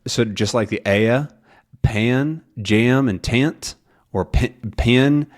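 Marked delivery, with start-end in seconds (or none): 1.8-3.7 PAN, JAM and TANT with the vowel gliding as in "aya"; Southern gliding vowel. Shown as a demonstration. Teacher showing Southern vowels in word list, drawn-out glide. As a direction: stretch PAN, JAM, TANT slowly into near two syllables. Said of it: "that can also become aya".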